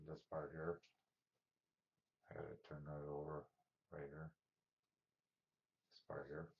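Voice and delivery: breathing heavily between words; audible heavy breaths. Real, not acted. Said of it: "don't mind my breathing".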